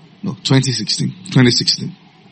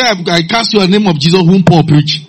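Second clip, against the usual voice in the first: lightly mocking, higher-pitched exorcist's formula; imitating sons of Scephas; 6 semitones higher than usual. Sons of Scephas casting out a demon, mildly mocked and high. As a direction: recite it like an unsure imitator, pitched up. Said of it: "we say sons of Scephas".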